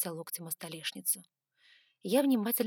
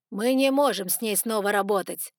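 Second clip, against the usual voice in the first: louder, abrupt refusal; sharp reply; 8 dB louder than usual. A narrator's reading. Doragu refusing to work with her, sharp reply. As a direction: cut the idea off sharply. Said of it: "резко ответил Дорагу".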